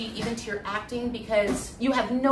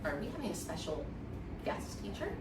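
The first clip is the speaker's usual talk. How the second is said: much softer, fast, laughing aside; a hint of a thrilled newcomer; hushed excitement; 6 semitones lower, 13 dB quieter than usual. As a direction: whisper it like a giddy secret. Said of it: "And I'm like".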